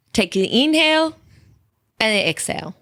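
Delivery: badly attempted German accent; half-hearted mock German accent, slipping away; terrible German accent. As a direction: have a poor go at a German accent. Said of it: "that was not a German accent at all".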